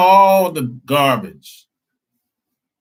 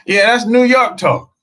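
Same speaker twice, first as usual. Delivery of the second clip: amused excited exclaim; 9 semitones higher, 4 dB louder than usual. Real, not acted. Laughing at New York slang.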